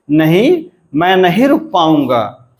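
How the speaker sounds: rising "नहीं", short pause, "पाऊंगा" falls away; negative-sentence tune. Shown as a demonstration. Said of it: "नहीं का क्या हुआ अनुतान साचा".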